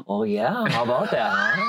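a dorky dad leaning in close; close talker. Acted. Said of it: "Close talker".

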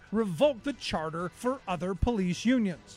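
measured documentary read; scripted history narration. Acted. Narrator telling listeners about the Boston police strike, scripted history narration. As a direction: read it as a radio history feature.

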